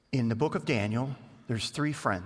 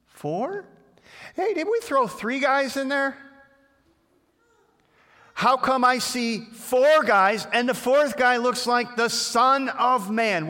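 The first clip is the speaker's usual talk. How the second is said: much higher, louder, slowed disbelieving shout; hammed-up amazement at the fourth figure; astonished king; 10 semitones higher, 6 dB louder, slower than usual. King peering into the furnace, shouting in astonishment.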